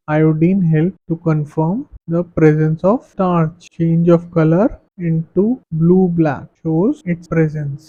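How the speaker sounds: very slow, even reading of notes; slow classroom dictation. Acted. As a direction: spell the definition out for students to copy.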